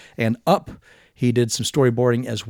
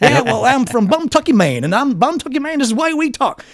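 put-on Southern accent; 13 semitones higher, 5 dB louder than usual. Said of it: "every part of America also has the Southern dialect".

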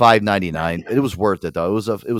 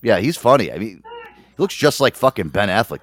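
usual speaking voice

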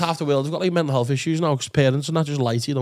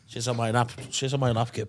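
tag; 7 semitones lower, 8 dB quieter than usual. Pretend. Playing a seedy bad Santa.

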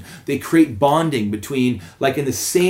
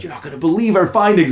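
lightly imitating an excited man; higher pitch, sharing big news; mock excitement; 5 semitones higher, faster than usual. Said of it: "he was all excited".

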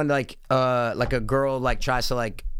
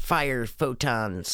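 slow dramatic command; 4 dB quieter, much slower than usual. Pretend. Toy play, slow command.

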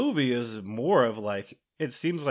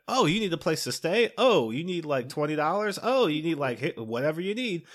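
lightly voiced hospitable neighbors; mock welcoming neighbors; 5 semitones higher than usual. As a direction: offer everything, overly eager. Black folks welcoming him.

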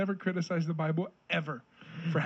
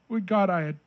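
speaking through hiccups; hiccuping mid-sentence; 2 semitones higher, 3 dB louder than usual. Real, not acted. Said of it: "I have the hiccups".

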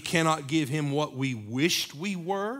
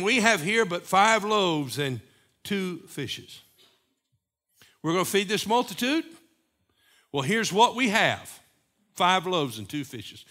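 louder, higher doubting disciples; voicing the disciples; 4 semitones higher, 5 dB louder than usual. Disciples telling Jesus what little they have, loud and higher. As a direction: play the worried disciples counting their food. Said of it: "And they say unto him".

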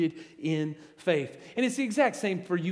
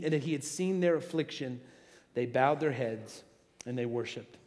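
scripture reading. Acted. Pastor reading scripture aloud to church, measured reading voice. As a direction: read the passage steadily to the congregation.

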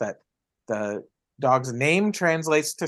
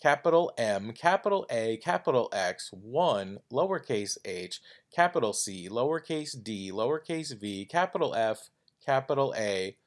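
letter by letter, softer; spelling it out; 6 dB quieter than usual. Shown as a demonstration. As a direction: read each character out carefully. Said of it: "to tell you the U R L is".

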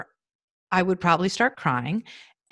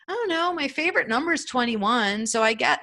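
imitating her son; 6 semitones higher than usual. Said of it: "He's like".

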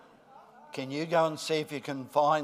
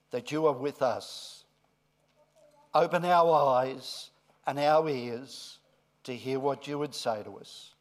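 prayer. Real, not acted. Leads a short prayer.

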